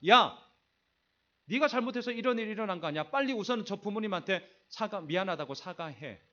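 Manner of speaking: lightly acted scolding parent, quick at the start. Parent pushing own child to apologise to other parents, mildly scolding. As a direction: rush into a parent's telling-off, then settle. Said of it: "부모가 내 새끼에게 이렇게 얘기하는".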